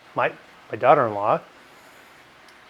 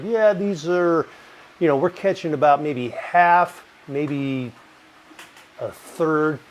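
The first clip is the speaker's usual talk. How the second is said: mock conservatives; 2 semitones higher, slower than usual. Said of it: "the conservatives are like".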